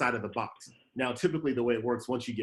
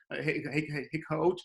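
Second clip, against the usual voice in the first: nervous call; 3 semitones higher than usual. Retold or imitated. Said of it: "with all the nerves in my voice".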